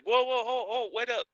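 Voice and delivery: panting as you catch up; out of breath. Acted. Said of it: "pretending I'm out of breath".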